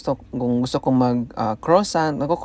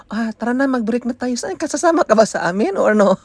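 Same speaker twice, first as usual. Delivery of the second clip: fake friendly boss; 6 semitones higher than usual. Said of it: "biglang mag-iba ang hangin".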